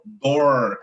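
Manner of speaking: "door" with a long retroflex R; "door" ending on a held American-style R; paulista R. Shown as a demonstration. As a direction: say "door" with the curled R of inland São Paulo. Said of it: "mais puxada pra aquele interiorzão de São Paulo".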